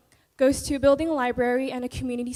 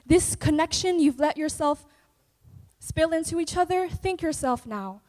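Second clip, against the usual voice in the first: dramatic poem recital; spoken word poetry; 3 semitones higher than usual. Acted. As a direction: perform it like slam poetry on stage.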